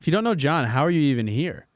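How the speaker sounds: hammed-up party bro grilling a guest; frat bro. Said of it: "You just sound like a frat bro".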